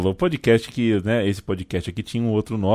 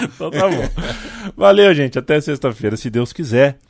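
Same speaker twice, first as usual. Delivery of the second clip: mock mom ending call; 5 semitones higher, 4 dB louder than usual. Mocking mother ending call.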